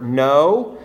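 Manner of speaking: "no" set apart with emphasis; stress on no. Shown as a demonstration. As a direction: say "no" as the key word. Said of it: "Notice the emphasis on the word".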